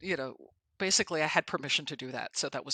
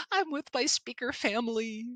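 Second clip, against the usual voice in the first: blissful gushing; 9 semitones higher than usual. Retold or imitated. Answering Josh at the table, high and dreamy. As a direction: melt into happiness. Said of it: "You look happy".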